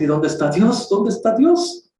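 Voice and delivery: high, slow despairing cry to God; anguished questioning. Retold or imitated. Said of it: "uno se pregunta".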